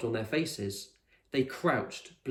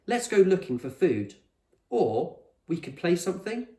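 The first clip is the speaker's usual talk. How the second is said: put-on much higher girl's voice; Lila's voice; 7 semitones higher, 4 dB louder than usual. A narrator's reading. Lila asking the others in the rain, higher and hopeful. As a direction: ask it hopefully.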